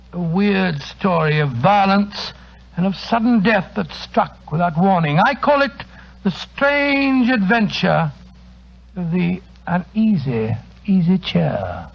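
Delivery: slow, darkly savoured title; ominous teaser. Acted. Doctor teasing the host with next week's eerie tale, slow and ominous. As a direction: linger on the title to spook them.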